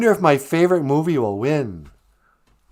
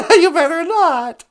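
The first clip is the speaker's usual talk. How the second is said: laughing protest; 8 dB louder, slower than usual. Real, not acted. Teasing threat amid laughter.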